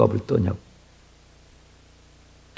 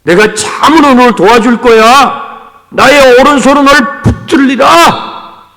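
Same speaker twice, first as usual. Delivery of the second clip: slow, louder, higher proclaiming shout; booming divine promise; 8 semitones higher, 7 dB louder than usual. Acted. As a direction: thunder it out as God's own word. Voicing God's promise with force.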